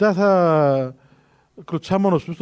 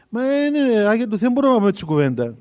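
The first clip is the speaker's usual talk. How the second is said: higher, faster hesitant objection; reluctant protest; 4 semitones higher than usual. Retold or imitated. Villagers balking at Saint Kosmas's request, higher and rushed protest. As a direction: balk at the saint, rushing out excuses. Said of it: "Λέει".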